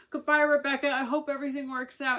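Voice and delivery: a hint of a sweet older lady calling after her; sweet old lady goodbye. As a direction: call it out cheerily like a kindly older lady across the waiting room. Older lady saying warm goodbye.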